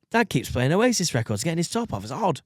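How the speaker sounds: mock-plaintive kid telling on Dad; complaining child. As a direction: confide in your uncle like a troubled child. Acted child complaining to uncle.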